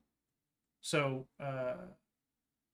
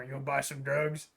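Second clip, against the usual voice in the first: secretive raspy sales murmur. Acted. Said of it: "the shady merchant guy".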